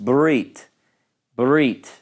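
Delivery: barit with the first vowel rushed almost away; barit, first syllable swallowed; hurried shva. Shown as a demonstration. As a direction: barit as a native speaker says it, quick and faint. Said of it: "It's hurried to the point".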